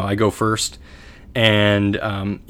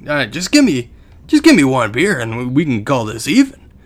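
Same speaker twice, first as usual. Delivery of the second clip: slightly raised mock bargaining; lightly voiced bum; 3 semitones higher, 3 dB louder than usual. Bum settling with his victim, lightly voiced bum. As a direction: imitate a street bum striking a deal, lightly. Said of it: "And he's like".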